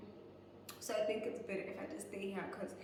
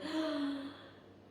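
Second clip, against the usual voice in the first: sharp panicked gasp; mock gasp; 5 semitones higher than usual. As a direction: gasp in fright. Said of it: "I was like".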